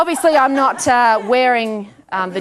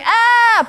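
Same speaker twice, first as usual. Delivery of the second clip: high, loud mock yelp; startled cry; 12 semitones higher, 6 dB louder than usual. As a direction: yelp as if landing on something horrible. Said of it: "that second ticket would be like".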